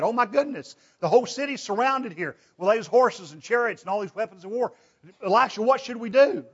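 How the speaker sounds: a scared servant begging Elisha for help; rising fearful cry; alarmed servant. Acted. Servant panics at surrounding army.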